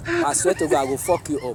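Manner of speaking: low, soft menacing threat; quiet threat. Acted. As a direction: threaten him under your breath.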